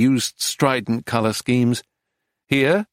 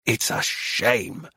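slow, softer regret; subdued lament; 3 semitones lower, 5 dB quieter, slower than usual. A narrator's reading. Dealer repeats her lament over the torn canvas, subdued. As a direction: draw it out softly, lamenting.

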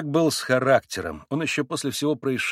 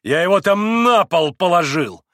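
loud, raised announcement; excited, higher, louder voice; breathless excitement; 4 semitones higher, 6 dB louder than usual. A narrator's reading. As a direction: report it with agitation. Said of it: "задыхаясь от волнения".

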